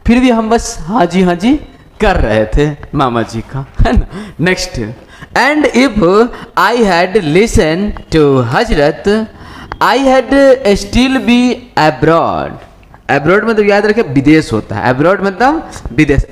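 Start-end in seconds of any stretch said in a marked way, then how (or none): 5.3-12.5 very slow, word-by-word English reading; measured classroom dictation pace; slow textbook reading. Acted. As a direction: read out each phrase with long pauses. Reads the English text aloud.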